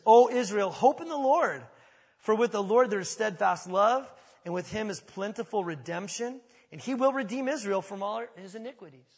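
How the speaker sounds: loud, high proclamation of scripture; proclaiming. Acted. Pastor reading verse seven and eight, proclaimed loudly. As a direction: call out Israel like a herald.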